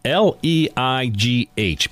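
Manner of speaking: slow letter-by-letter spelling. Shown as a demonstration. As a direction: spell each letter slowly. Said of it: "Her first name is spelled".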